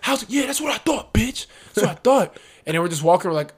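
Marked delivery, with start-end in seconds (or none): 0.0-2.4 mock gloating stranger. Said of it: "He's like".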